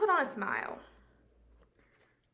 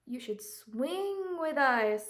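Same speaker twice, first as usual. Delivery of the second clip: whisper; 2 semitones higher, 4 dB louder, slower than usual. Acted. Monkeys inviting Jim.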